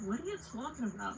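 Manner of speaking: New York accent on request; sister's New York accent. Shown as a demonstration. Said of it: "say it like your sister was saying it".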